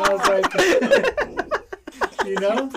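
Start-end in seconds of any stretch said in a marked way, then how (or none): 0.6-2.2 high, far laughter; real laughter at his son; laughing. Real, not acted. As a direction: break into helpless laughter. Dad laughs at own story.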